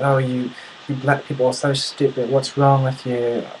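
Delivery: put-on British accent, mildly indignant; mock scolding in a British accent; British, flipping out. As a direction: imitate a Brit berating someone. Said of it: "He flips out".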